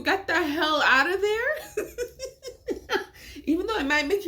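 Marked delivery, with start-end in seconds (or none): 0.0-1.8 laughing advice. Real, not acted. Laughing while giving advice. 1.9-3.4 a quiet, high giggle trailing off; soft high laugh. Real, not acted. Vlogger amused by her own crime tips, soft high giggle.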